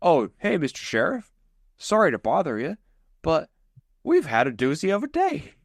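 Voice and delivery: hammed-up yokel sarcasm; sarcastic hick. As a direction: Tucker mocking what they'd tell the sheriff. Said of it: "And Tucker's like".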